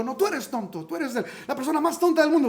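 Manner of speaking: one-up the sibling's "tonto"; mock kid shouting "tú eres tonto" back at a brother; escalating child taunt.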